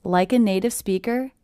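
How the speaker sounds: "Like a native speaker" with beats on "Like", "native", "speaker"; big-small beats through "Like a native speaker", rising end; stress pattern. Shown as a demonstration. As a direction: lean on the first syllables of "native" and "speaker". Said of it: "I also notice the stress".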